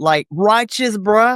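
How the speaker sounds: California surfer-dude accent. Told they have a California accent, the speaker shows it: surfer accent. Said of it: "that's a surfer accent".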